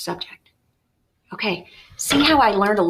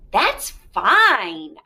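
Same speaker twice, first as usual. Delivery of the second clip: heartily. Acted. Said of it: "I said heartily".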